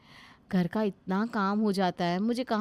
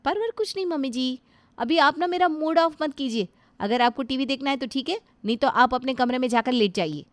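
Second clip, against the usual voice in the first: lightly voiced sharp young wife, a bit higher; rude daughter-in-law; 4 semitones higher, 4 dB louder than usual. Daughter-in-law refusing to give up the TV, curt and dismissive. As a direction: brush off the old woman rudely.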